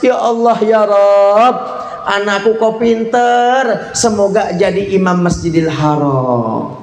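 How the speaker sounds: drawn-out plea to God, voice lifted then sinking; exasperated mother turning it into a slow blessing; mother's prayer. Retold or imitated. Mother praying for her naughty son, lifted drawn-out prayer. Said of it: "Apa yang keluar dari mulut Ibunda".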